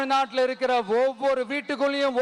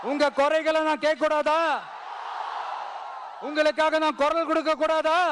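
calling out to crowd. Real, not acted. Leader asking the crowd directly for permission, calling out. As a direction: call the crowd to answer back.

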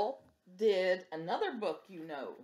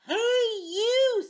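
much higher bossy hail; calling out; 7 dB louder than usual. Acted. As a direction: call out for a fight. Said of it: "said the grouchy ladybug".

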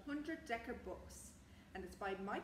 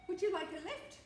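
raised, louder storybook call; shouted offer; 10 semitones higher, 7 dB louder than usual. A narrator's reading. Man in the balloon offering stranded passengers a lift, mild shout. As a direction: call it out from above, lightly projected. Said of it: "shouted the man in the balloon".

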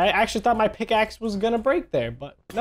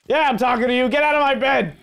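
higher-pitched, indignant telling-off; mock-angry order; 7 semitones higher, faster than usual. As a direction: chase them off indignantly. Ordering game enemy out of bed.

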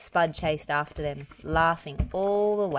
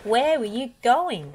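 stern question; 7 semitones higher, 5 dB louder than usual. A narrator's reading. Farmer questions tractor.

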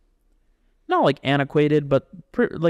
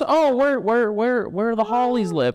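pitched-up country local; folksy directions; 8 semitones higher than usual. Retold or imitated. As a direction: give lazy country directions. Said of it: "It's just".

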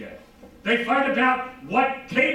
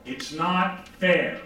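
put-on child whining; 3 semitones lower, much slower than usual. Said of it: "hear from any child the words".

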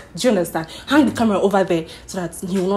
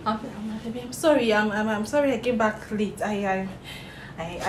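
timid stammer; 8 dB quieter than usual. Pretend. Fake confession, timid stammer.

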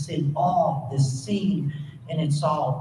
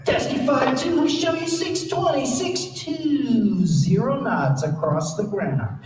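high, slow radio readout with glee; gleeful controller; 6 semitones higher, slower than usual. Retold or imitated. Controller putting the Navy jet in its place, gleeful and slow. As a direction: savor every number. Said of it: "a little glee in the controller's voice".

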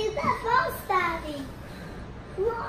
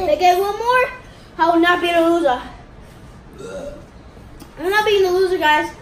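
excited; 5 dB louder, faster than usual. Real, not acted. Eating challenge, competitive boasting.

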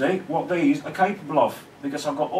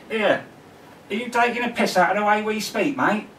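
higher mock London accent, indignant; indignant Londoner; 8 semitones higher than usual. Imagined Londoner challenging the vlogger, indignant London accent. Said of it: "all the old Londoners might be watching and thinking".

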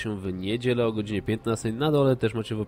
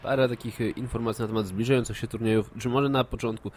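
stuffy nose from a cold; blocked nose. Real, not acted. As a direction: talk through a blocked nose. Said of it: "mam zatkany nos".

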